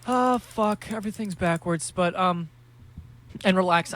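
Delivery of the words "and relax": called out loud, teasing the parents; a loud playful "relax" aimed at the parent listeners; loud mock calm-down. Real, not acted. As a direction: boom out a jokey "and relax". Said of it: "I'm kidding around".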